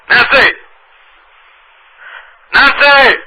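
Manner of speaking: high, loud call across a room. Acted. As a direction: shout the name to get attention. Calling out on phone.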